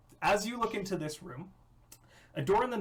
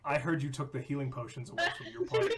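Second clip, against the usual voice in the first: mock official voice; faster than usual. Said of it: "Wizards calls me up".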